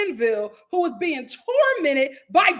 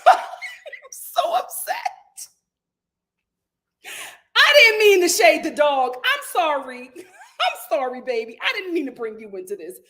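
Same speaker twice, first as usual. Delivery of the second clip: laughing apology; 3 dB louder than usual. Real, not acted.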